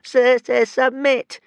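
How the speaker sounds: high stuttering plea, lightly moaned; a hint of a whimper; moaning dragon. A narrator's reading. Tiny dragon begging Hiccup to give up, mild moan. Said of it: "moaned Toothless".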